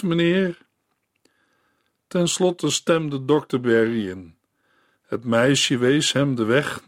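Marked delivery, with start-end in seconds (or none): 0.0-0.6 whispered meneer; hushed begging girl; whispered plea. Acted. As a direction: breathe the last word. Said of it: "whisper heard".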